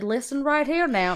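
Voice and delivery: blustering cartoon rooster, stammering repeats; Foghorn Leghorn. Showing the friend the comparison, Foghorn Leghorn bluster. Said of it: "Foghorn Leghorn kinda thing".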